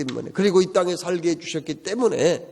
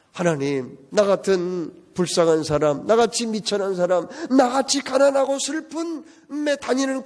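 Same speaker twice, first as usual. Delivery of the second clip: humble prayer; 6 semitones higher than usual. Retold or imitated. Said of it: "이렇게 고백하고 있습니다".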